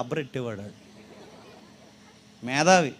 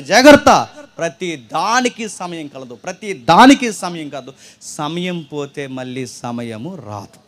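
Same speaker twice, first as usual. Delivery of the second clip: slow, weighted warning from Solomon; slow every phrase as a solemn caution; slow, deliberate preacher's warning; 7 dB louder, slower than usual. Acted. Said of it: "Solomon చాలా స్పష్టంగా చెప్తున్నాడు".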